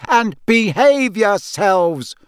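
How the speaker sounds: slow, loud, high parting order; calling after. A narrator's reading. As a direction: call sternly after departing children. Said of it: "she called after the twins' retreating backs".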